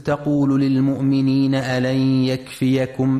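slow chanted tajweed recitation; Quran recitation. Acted. Radio tajweed teacher chanting the verse slowly for listeners. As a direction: chant the verse slowly, stretching the long vowels.

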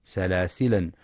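سلاسلا with a final a in continuous reading, marked wrong. Shown as a demonstration. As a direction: show the mistake سلاسلا with a final a. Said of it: "فلا يقرأ بالتنوين وصلا".

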